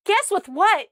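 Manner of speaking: high, loud gleeful teasing question; happy and proud. Retold or imitated. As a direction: imitate him gleefully springing a surprise. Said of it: "He was so happy about it".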